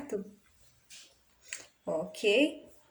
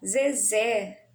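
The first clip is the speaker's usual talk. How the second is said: Zezé louder, weight on the final zé; stress on last syllable; 7 dB louder than usual. Shown as a demonstration. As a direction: push the second syllable of Zezé. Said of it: "o mais forte tá no". (Zezé com força na última sílaba)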